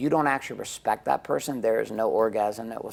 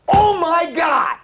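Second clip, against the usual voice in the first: exasperated shout; 12 dB louder, slower than usual. Retold or imitated. Exasperated cry during fight.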